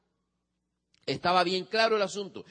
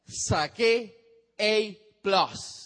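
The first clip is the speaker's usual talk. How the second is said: put-on proud child; 3 semitones higher, 5 dB louder, much slower than usual. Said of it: "el muchacho vino y dijo".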